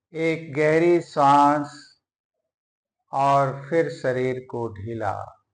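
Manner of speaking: measured meditation voice with long pauses between phrases; guided yoga nidra. Acted. Teacher guiding lying listeners through breathing and prayer, measured meditative delivery. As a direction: guide them into relaxation, phrase by phrase.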